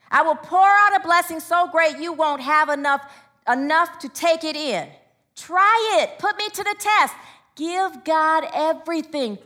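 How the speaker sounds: forceful preacher quoting God's promise; emphatic sermon delivery; scripture proclamation. Real, not acted. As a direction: proclaim it to the congregation with punched key words.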